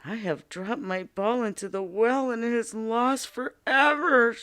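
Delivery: mild mock wail of a spoiled princess; understated lament over the lost ball. Princess tells the frog her ball is lost, mildly wailing. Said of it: "she wailed".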